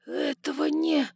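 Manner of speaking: breathless awed whisper; start, then choke it off; stunned, breaking off. Acted. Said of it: "начал кто-то и оборвал сам себя".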